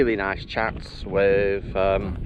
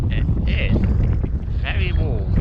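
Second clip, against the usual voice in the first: raised voice over the wind; shouting over wind; 5 dB louder than usual. Real, not acted. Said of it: "if you can hear me over the wind".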